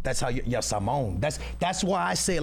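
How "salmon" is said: "Salmon" as sah-mon, a nasal Portuguese o; Portuguese-style salmon. Shown as a demonstration. Explaining his accent, "Salmon" said the Portuguese way. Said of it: "'cause I'm Portuguese".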